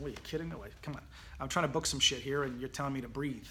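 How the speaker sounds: mock disbelief, tossed off softly; eye-rolling skepticism. Doubting acting student objecting to breathing advice, eye-rolling skepticism. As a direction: grumble it under your breath, half-acting a skeptic. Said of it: "some of us are rolling our eyes and going".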